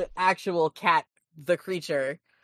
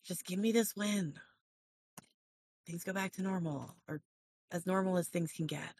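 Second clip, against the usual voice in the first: a weary French villain asking for the win; French accent villain; 12 dB quieter than usual. Acted. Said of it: "actually do this in character".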